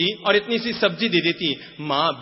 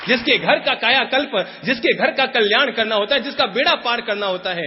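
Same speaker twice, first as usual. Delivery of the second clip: higher, louder preaching build; forceful preaching; 6 semitones higher, 5 dB louder than usual. Acted. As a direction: drive the point home to the crowd. Preacher emphasizing saints' blessing.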